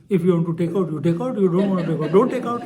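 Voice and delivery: mocking refrain. Teller mimicking swami's refrain, amused.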